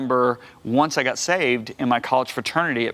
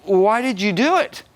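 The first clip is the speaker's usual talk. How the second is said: higher, shocked disbelief at the coworker; horrified question; 8 semitones higher, 3 dB louder than usual. Retold or imitated. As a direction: ask it stunned and appalled. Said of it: "I was horrified".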